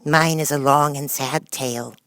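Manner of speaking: slow, mournful mouse voice; sighing sad tale. Acted. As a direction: sigh it out as a sad old story.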